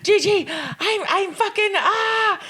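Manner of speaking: high, wailing mock sob; retold tearful call to a friend; imitating crying. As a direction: whimper it out like breaking down on the phone. Retelling crying call to Gigi.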